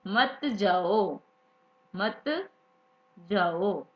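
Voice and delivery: very slow, drawn-out refusal; a light stern teacher saying no, slowly; teacher refusing. Retold or imitated. Teacher slowly refuses the student going home. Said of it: "तो sir क्या कहते हैं आगे से".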